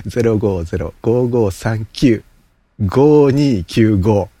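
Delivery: digits read slowly and clearly; slow careful reading. Shown as a demonstration. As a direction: spell out each number slowly, deliberately. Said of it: "留守電専用電話番号はこちらとなっております".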